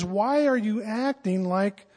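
puzzled Paul. Shown as a demonstration. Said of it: "But he says".

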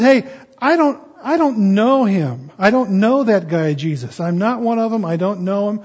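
frantic denial. Acted. Peter denying Jesus to the accusers, loud protest. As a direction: push them away, loud and rattled.

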